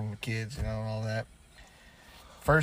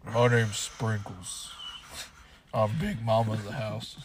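dude voice. Pretend. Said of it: "big buff one coming out, dude voice".

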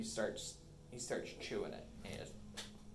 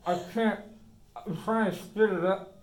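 rising panicked cries, louder and higher; panicking; 5 semitones higher, 12 dB louder than usual. Acted. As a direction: plead in growing panic, voice climbing. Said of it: "now he's kinda panicking".

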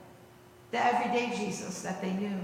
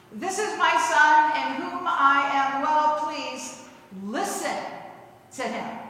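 voice of God; 4 semitones higher, 4 dB louder than usual. Retold or imitated. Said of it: "And then the voice says".

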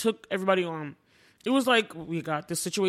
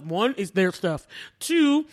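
ordinary talk

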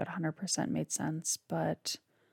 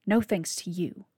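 a louder, biting retort; snapping back; 4 dB louder than usual. Acted. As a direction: throw it back at him with contempt. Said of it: "Beau snapped".

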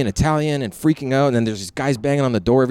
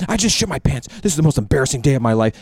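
hammed-up misery; faster than usual. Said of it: "laid it on thick".

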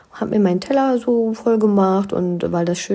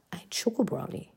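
whispered reveal; 4 semitones higher, 10 dB quieter than usual. Acted. Dramatic reveal of favourite dessert.

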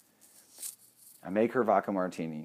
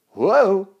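high, loud jolt of surprise; startled whoa; 11 semitones higher, 13 dB louder than usual. Retold or imitated. Retelling the moment the guest goosed him, a loud startled yelp. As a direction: yelp like you just got pinched.

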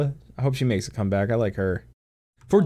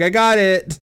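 a hint of a smug villain, pitched up; mock villain line; 7 semitones higher, 5 dB louder, slower than usual. Mocking the Ascian arriving, lightly voiced smug villain. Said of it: "He's like".

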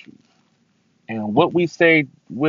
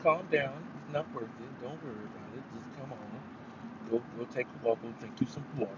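soft mom talking someone down; imitated soothing mom; 13 dB quieter than usual. Mom calming an upset son, imitated soothing. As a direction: voice a quietly reassuring mom. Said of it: "she did her mom things".

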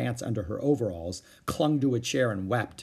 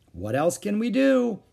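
higher, a touch of mild desperation; lightly voiced flustered mother at a loss; desperate; 9 semitones higher, 4 dB louder than usual. A narrator's reading. Mother to Beezus, mildly desperate. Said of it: "Mother sounded desperate".

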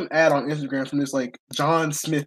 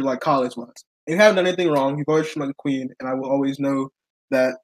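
reading aloud. Shown as a demonstration. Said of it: "can I read it out loud".

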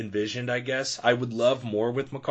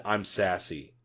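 mock misheard "I'm sassy" in her accent; 3 semitones lower, 3 dB quieter, slower than usual. Fan mimicking Cersei's misheard line in her accent. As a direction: echo how "I'm sassy" sounded with the accent. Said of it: "It sounded like she said".

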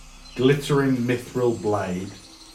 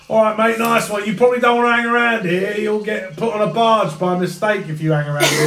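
shopkeeper voice; 6 semitones higher than usual. Acted. GM voicing shopkeeper NPC.

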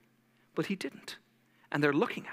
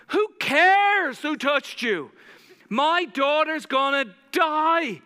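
desperate pleading; 7 semitones higher than usual. Retold or imitated. Desperate father begs Jesus.

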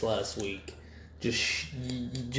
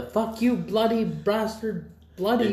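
high, slow hammed-up dub line; mock bad dub; 11 semitones higher, 4 dB louder than usual. Cohost mocks the bad anime dub with a hammed-up high yell. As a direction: overact a clumsy anime dub insult. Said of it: "dub with the".

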